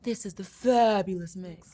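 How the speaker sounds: loud send-up of a radio host; exaggerated mock announcer. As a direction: mimic a showy presenter, punching FABULOUS. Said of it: "Like that?".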